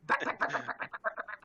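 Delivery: urgent voiceless whisper, word after word; acted whisper. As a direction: whisper it rapidly as a silent warning. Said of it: "does the whisper voice thing".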